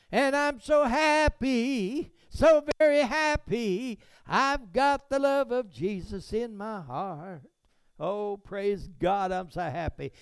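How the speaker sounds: high, slow, overjoyed gushing; gushing happy believer. Retold or imitated. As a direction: gush like a blissfully happy believer. Mock happy Christian voice.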